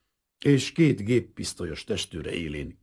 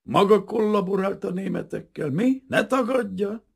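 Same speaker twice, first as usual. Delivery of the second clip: higher, louder accusing roar; officer yelling at the prince, accusing him; sudden yell; 5 dB louder than usual. A narrator's reading. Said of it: "üvöltött rá hirtelen".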